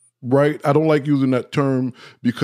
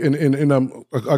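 real stumbling over repeated words; stuttering a little; faster than usual. Real, not acted. Speaker caught up in the moment, stuttering a little. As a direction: trip over the first words, restarting. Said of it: "I'm stuttering a little bit".

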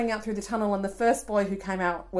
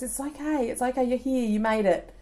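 reassuring; 4 semitones higher than usual. Retold or imitated. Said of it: "look on his face of reassurance".

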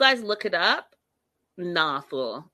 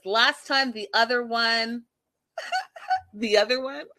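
laughing while quoting; 4 semitones higher than usual. Real, not acted. Laughing at the goat story.

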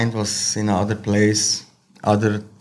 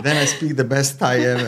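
laughing; much faster than usual. Real, not acted. Joking while laughing.

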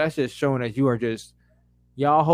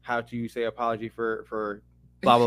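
mock asking voice; 4 semitones lower, 3 dB quieter than usual. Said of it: "they get on Chat G P T".

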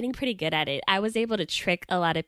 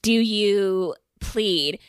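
judge; 2 semitones higher, 4 dB louder, much slower than usual. Acted. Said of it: "So the judge goes".

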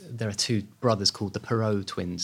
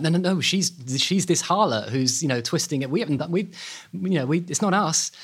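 higher-pitched, flustered mock protest; indignant denial; 6 semitones higher than usual. Accused twins blame the woman in court case, mock-indignant denial. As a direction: act out a protest, tripping over restarts.

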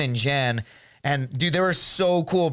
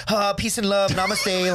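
higher, mocking hippie voice; mock wimpy pacifist; 5 semitones higher, slower than usual. Soldier mocking a pacifist in war, wimpy hippie voice. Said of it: "Some fucking pussy that's like".

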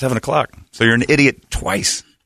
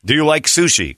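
slightly raised fake Japanese accent; mock Japanese accent; 4 semitones higher than usual. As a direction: ask in a badly faked Japanese accent. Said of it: "can you do a Japanese accent?".

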